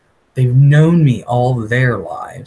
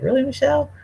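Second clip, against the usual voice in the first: mock reproach; 12 semitones higher, faster than usual.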